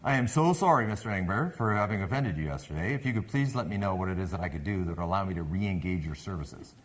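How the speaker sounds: retold grovelling phone apology; begging apology. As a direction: plead deferentially, settling after an emphatic apology. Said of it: "I'm begging over the phone".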